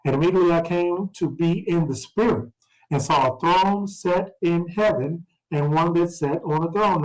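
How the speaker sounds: measured scripture reading voice. Acted. Teacher reading Revelation aloud, measured scripture voice. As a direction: read the verses out to the class.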